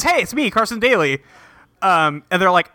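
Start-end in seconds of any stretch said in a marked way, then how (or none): 0.0-1.2 higher, lightly voiced fake TV host; a hint of an eager impostor introducing himself; Carson Daly impostor. Impostor greets the two girls as Carson Daly, lightly mock-chipper. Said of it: "guy who's clearly not Carson Daly".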